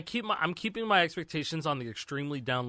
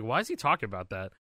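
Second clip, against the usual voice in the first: laughing, climbing higher in disbelief; baffled disbelief; 5 semitones higher, 7 dB louder than usual. Retold or imitated. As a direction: act out hearing a shocking lyric. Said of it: "I'm like".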